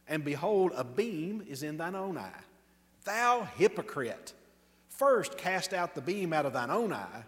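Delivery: measured King James reading, slowed on key lines; rising to a ringing Thou hypocrite; scripture reading. Acted. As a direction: read it as solemn proclamation from the pulpit. Reads Matthew 7 aloud.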